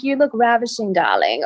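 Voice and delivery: a touch of affected British charm; imitating British. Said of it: "Oh, so British".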